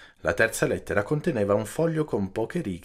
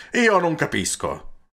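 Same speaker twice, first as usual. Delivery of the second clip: higher, frustrated outburst; exasperated exclamation; 7 semitones higher than usual. A narrator's reading. Peppone pounding the table at Don Camillo, exasperated exclamation. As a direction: exclaim it like a fist hitting the table. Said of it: "Peppone pestò un pugno sul tavolino".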